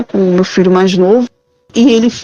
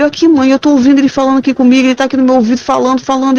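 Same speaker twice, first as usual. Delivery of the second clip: retold panicked son; 3 semitones higher, much faster than usual. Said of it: "ele começou a chorar de desespero".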